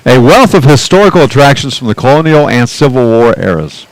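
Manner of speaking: slightly lifted radio announcer read. Pretend. Announcer reads out local attractions between pitches, radio voice. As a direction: present it like a radio travel feature. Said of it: "radio voice?".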